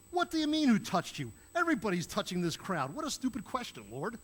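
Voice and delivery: loud, exasperated outburst that starts high; Peter, incredulous. Retold or imitated. Disciple to his Lord over a stupid question, incredulous. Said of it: "what I think Peter's really common saying".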